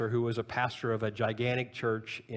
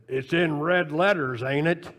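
put-on deep Texas accent; 3 semitones higher, 5 dB louder than usual. Old man answering the professor's pushy question, deep Texas accent. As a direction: answer as an older Texan, unhurried. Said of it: "in this deep Texas accent, he said".

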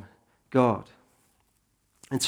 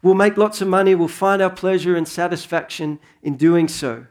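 mock boasting; 4 semitones higher than usual. Preacher voicing self-assured merchants of the early church, mildly boastful. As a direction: put on a mild boast, easing off at the end. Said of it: "who are boasting about saying".

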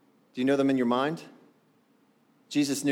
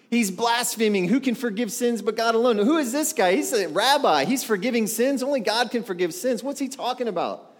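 mock indignant scribes; 5 semitones higher than usual. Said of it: "Why does this fellow talk like that".

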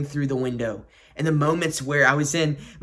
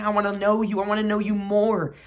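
higher, earnest appeal; mild cry of longing, pitched up; 5 semitones higher, faster than usual. Acted. The Lord cries out to the listener, earnestly longing. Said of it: "what the Lord is crying out to you".

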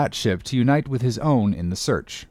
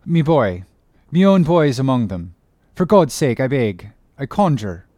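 louder, pleading father's cry; desperate exclaiming; 5 dB louder than usual. Acted. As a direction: beg loudly for his son. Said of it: "here exclaimed the stranger captain".

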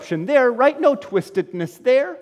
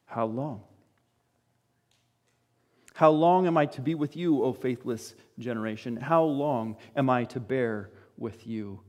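weary lament; 8 semitones lower, 6 dB quieter than usual. Acted. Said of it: "And Jesus prays that prayer".

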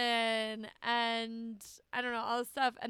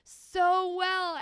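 higher, slow, exasperated plea; mock dismay; 8 semitones higher, 6 dB louder than usual. Retelling her reaction to coworkers, mild mock dismay. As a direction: pretend disappointment at the coworkers. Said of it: "And I was like".

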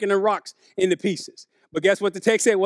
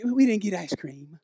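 put-on sulky child; 2 semitones lower, 5 dB quieter than usual. Child complaining after good day.

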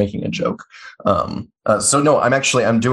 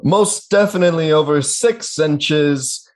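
wrestling announcer; 5 semitones higher than usual. Pretend. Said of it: "in an announcer voice".

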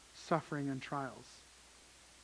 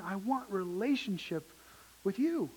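gentle pleading Jesus; 4 semitones higher than usual. Acted. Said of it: "this is Jesus saying".

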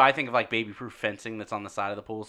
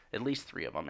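softer, lower, half-whispered "at least three of 'em"; whispering; 4 semitones lower, 6 dB quieter than usual. Shown as a demonstration. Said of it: "You're gonna get mad at him for whispering?".

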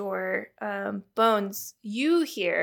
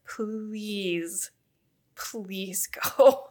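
drawn-out plea in a put-on accent; Caroline's put-on accent; much slower than usual. Busy astronomer begging visitors to go, in a put-on accent. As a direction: beg them to leave in an invented accent. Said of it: "what this accent is I've decided on for Caroline".

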